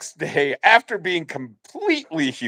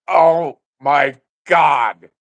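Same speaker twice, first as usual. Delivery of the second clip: slow stunned oh my God; drawn out in dismay; 4 semitones higher, 5 dB louder, much slower than usual. Retold or imitated. Embarrassed player groaning at teammate's joke, slow dismay.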